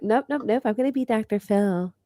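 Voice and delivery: high, laughing playful impersonation; hammed-up stubborn refusal, giggling; mock protest voice. Mocking friend's protest.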